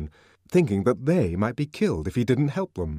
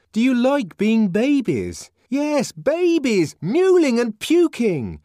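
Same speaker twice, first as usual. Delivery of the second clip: much higher and louder, spitting out the scorn; exasperated insult; 12 semitones higher, 4 dB louder, slower than usual. Acted. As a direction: sneer at them like they're infants.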